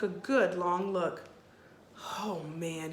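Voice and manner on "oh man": whispered. A narrator's reading. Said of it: "he whispered".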